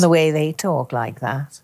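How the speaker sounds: slightly flat Scouse attempt; flat Liverpool accent. Shown as a demonstration. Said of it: "Slightly flat".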